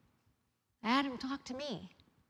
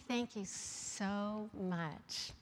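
fake polite thanks; 2 semitones lower, 5 dB quieter, much slower than usual. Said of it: "I rolled my window up and I was mad".

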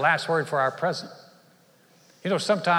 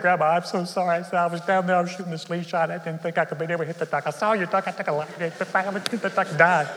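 crying; 3 semitones higher, faster than usual. Retold or imitated. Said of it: "he begins to cry".

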